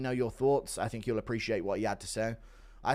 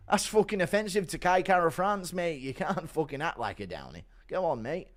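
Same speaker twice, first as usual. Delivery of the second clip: a hint of a British bro; lightly voiced scolding mate; gym bro; 3 semitones higher than usual. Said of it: "Impression of Bully Tom".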